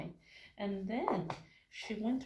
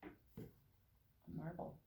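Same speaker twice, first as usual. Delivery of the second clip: slow breathy whisper for the big reveal; hushed, drawn-out reveal; secret whisper; 5 semitones lower, 15 dB quieter, much slower than usual. Acted. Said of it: "And it said".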